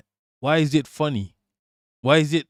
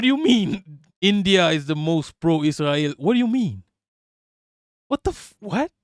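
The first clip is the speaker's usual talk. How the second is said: incredulous. Real, not acted. Outraged disbelief at the comment.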